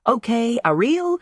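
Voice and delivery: bright, high and cheery; cheerful. A narrator's reading. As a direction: chirp it out happily. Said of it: "They cheerfully agree".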